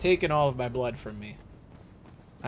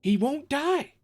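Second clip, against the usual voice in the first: much higher, strangled exasperated squeak; strange noise; 11 semitones higher, slower than usual. Real, not acted. Player who can't kill the boss, high strangled squeal. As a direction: let it crack up into a weird squeal. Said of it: "I don't even know how I made that noise".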